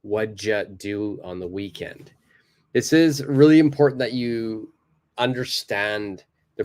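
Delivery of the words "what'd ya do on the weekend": "What'd ya do on the weekend" as wudja, soft; lazy native "What'd ya do"; relaxed blended. Shown as a demonstration. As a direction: let "What'd ya" slur together. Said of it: "So one more time".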